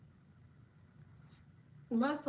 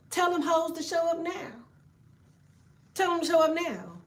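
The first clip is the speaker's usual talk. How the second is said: raised, higher hype shout; hyped-up call; 6 semitones higher than usual. Real, not acted. Streamer hyping chat to call out demons, raised shout. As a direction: fire them up to face the demons.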